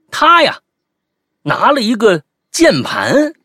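ordinary delivery

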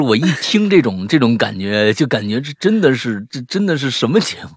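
ordinary delivery

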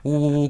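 mock boo-hoo sobbing; spoken-out, storytelling crying noise; imitated wailing. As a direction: imitate a family wailing in mourning. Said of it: "就，就呜呜呜哭".

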